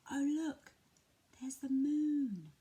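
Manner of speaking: put-on slow, breathy hush for a toddler; hushed wonder. Shown as a demonstration. Parent showing a toddler the moon in a hush. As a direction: draw the child in with a hushed whisper. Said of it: "you might like to say".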